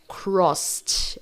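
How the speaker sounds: CROSSED as one syllable, "crost". Shown as a demonstration. Teacher models the past of cross, ED as T. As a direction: end CROSSED on a crisp voiceless ST. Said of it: "Aqui vai ficar".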